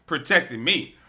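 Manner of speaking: fervent loud declaration; bold, rising testimony; proclaiming loudly. Real, not acted. Declaring faith loudly to host.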